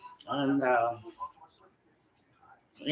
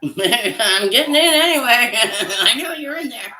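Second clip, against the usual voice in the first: laughing playful voice; 8 semitones higher, 7 dB louder than usual. Pretend. Mock break-in, laughing, high voice.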